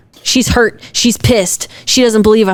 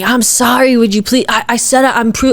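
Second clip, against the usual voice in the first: higher-pitched, hurried mock pleading; mock begging; 4 semitones higher than usual. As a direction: imitate a man begging for forgiveness. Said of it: "you're fucking begging".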